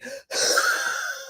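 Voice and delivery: demonstrated heavy, winded breathing; acted gasping for breath; out-of-breath panting. Shown as a demonstration. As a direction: huff as if winded by a flight of stairs. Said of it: "That is how it would sound".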